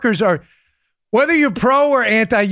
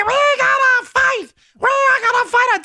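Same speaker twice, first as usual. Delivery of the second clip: high-pitched de Blasio. Retold or imitated. Host mimicking the mayor's distorted voice, high and squeaky. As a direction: play it like a digitally sped-up tough guy. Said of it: "And he".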